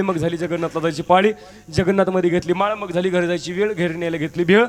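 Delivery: rhythmic chanted couplets; reciting a rhyming ukhana. Acted. Bride reciting her name rhyme to the women. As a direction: rattle off the rhyme in a chanting lilt.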